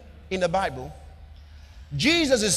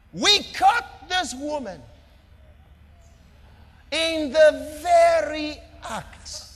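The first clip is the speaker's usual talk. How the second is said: accusers' voice; 2 semitones higher, slower than usual. Acted. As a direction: drag out each word and hurl the charge.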